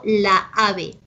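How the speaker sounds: "la ave" with two strong a's, kept apart; clashing vowels. Shown as a demonstration. Teacher showing students cacophony, both a's sounded in "la ave". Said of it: "Las pronuncio a las dos que son fuertes y chocan".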